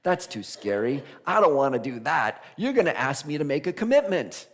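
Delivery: lightly voiced scared excuses with a laugh; a hint of a frightened would-be hero; reluctant hero. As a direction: back away from the call half-laughing. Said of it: "start our journey and go".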